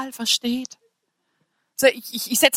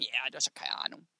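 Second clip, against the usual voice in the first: low, hushed mock sneer; imitated scoffing single; 13 semitones lower, 18 dB quieter than usual. Imagined single scoffing at preacher, low and hushed. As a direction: mutter it like a doubtful listener. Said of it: "würde sagen".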